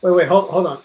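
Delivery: ordinary talk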